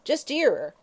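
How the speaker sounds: put-on old woman complains of the singing; vicious complaint. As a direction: spit it out in disgust. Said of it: "she said viciously".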